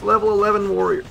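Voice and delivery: high, loud and fast complaint; real exasperated yell; loud exasperation. Real, not acted. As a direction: throw the words out in frustration. Exasperated at weak troops.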